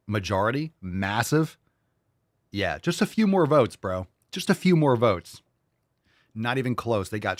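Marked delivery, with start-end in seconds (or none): 2.5-5.4 mocking repeat.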